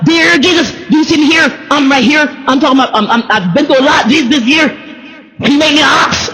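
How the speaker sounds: a hammed-up plea to Jesus, up high; mock prayer to Jesus.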